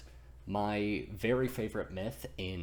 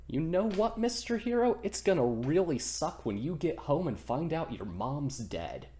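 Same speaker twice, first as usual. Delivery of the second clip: much higher, louder jeering taunt; taunting ferryman; 6 semitones higher, 3 dB louder than usual. Acted. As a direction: needle him, then drop flat on the last word. Ferryman taunts Thor about mom.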